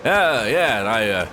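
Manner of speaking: relaxed Australian interview voice; Australian accent. Retold or imitated. Streamer retelling Hemsworth's interview, lightly imitated Australian accent. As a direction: imitate a casual Australian actor. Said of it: "and he was like".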